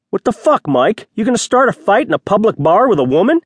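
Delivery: high-pitched indignant challenge; incredulous rebuke. A narrator's reading. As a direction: call him out in disbelief. Friend stops Mike starting a fight.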